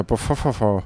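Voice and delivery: mock the stammering character, trailing off; lightly voiced stammerer, repeating syllables; imitating speech impediment. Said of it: "die letzte Silbe wiederholt".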